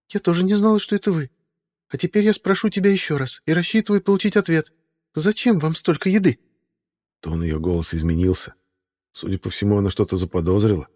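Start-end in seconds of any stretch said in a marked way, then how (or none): 0.1-6.4 put-on high, startled then suspicious girl's voice; a nervous young woman catching them red-handed; young woman Meadowlark. A narrator's reading. Meadowlark questions Simon about the food cart, high suspicious young woman.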